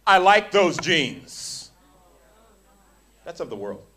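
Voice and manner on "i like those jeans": mock slow flirt. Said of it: "statements that disciples have made".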